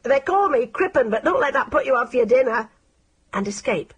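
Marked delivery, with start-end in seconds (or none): 0.0-2.7 high, sly, coaxing villain voice; wheedling stranger offering pie; creepy Crippen. A narrator's reading. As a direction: lure the child with false sweetness.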